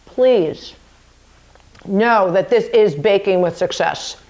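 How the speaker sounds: talking with a mouthful; words round a sticky bite; mouth full of peanut butter. Real, not acted. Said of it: "My mouth is full of peanut butter".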